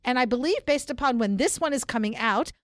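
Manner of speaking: brisk upbeat announcer read. Pretend. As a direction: read the links like a show announcer. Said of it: "since you want me to use my announcer voice with the links".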